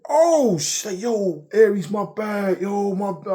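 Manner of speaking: high mock panicked apology, loud at the start; alarmed apology. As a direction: imitate a friend blurting out apologies in a high voice. Retold friend's sudden alarmed apology.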